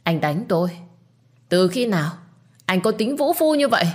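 each word pressed, rising high at the end; bitter accusation. Acted. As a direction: accuse him of brutality. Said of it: "nói nhấn mạnh từng chữ". (nhấn từng chữ, cao vút cuối câu)

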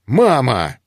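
loud exasperated call; exclaiming. Acted. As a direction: call out to mother, annoyed. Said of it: "воскликнул дракон". (громкий возглас)

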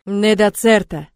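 loud, drawn-out roar of an order; growled command. A narrator's reading. Arch orders the struggling captive in his tongue, growling. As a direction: growl it out slowly and forcefully. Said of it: "рыкнув".

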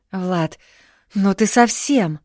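a touch of outrage, drawn out; indignant. A narrator's reading. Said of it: "возмутилась Марина". (возмущённо)

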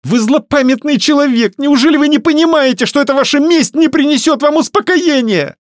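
high, loud, tearful accusation; heated outcry. A narrator's reading. Varya accuses Matvey of vengeance, crying out high and loud. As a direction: hurl the reproach at him, near tears. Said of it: "воскликнула она в сердцах".

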